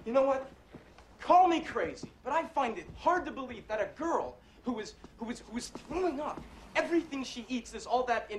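acted indignant challenge; heated accusation. Acted quarrel, accusing the other.

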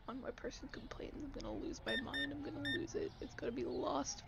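hushed exasperated muttering; frustrated whisper to yourself; whispered frustration. Real, not acted. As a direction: grumble it under your breath.

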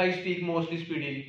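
each word drawn out slowly and softly; slow dictation. Shown as a demonstration. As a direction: read the written line slowly like dictating. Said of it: "मैंने बताया मैं".

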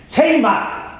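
high, full-voiced call; top-of-voice shout. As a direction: shout it out loud at the top of your voice. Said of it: "at the top of my voice".

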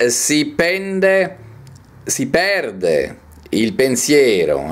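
slow, measured poetry reading; poem recitation. Acted. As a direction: declaim each phrase, lingering on the stressed vowels. Reads a poem aloud.

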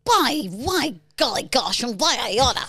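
put-on tough 1940s street kid; scrappy old-timey boxer. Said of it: "You were like a nineteen forties boxer".

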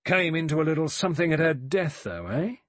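loud, hearty, bullying official tone. A narrator's reading. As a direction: lean on him like a bully policeman. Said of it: "hearty, bullying, official manner".

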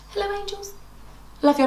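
distant, soft calling hello; high, far-off greeting to loved ones; called from afar. Real, not acted. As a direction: call hello to the family across the house.

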